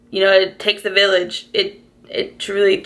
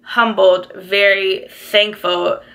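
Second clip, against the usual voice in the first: close to tears; slower than usual. Real, not acted. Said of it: "I'm really gonna cry".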